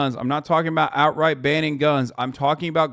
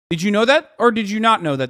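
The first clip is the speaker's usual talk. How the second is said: louder and higher, pressing the question; insistent repeat; 4 semitones higher, 4 dB louder than usual. Real, not acted. Streamer pressing chat on cartel guns, insistent louder. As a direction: demand an answer.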